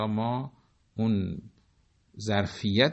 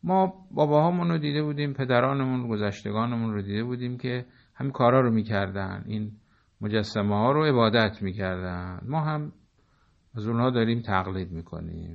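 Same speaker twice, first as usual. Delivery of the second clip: idol worshippers' reply; 3 semitones higher than usual. Retold or imitated. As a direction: voice the people answering proudly, a touch mocking. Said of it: "پاسخ اونها این بود که".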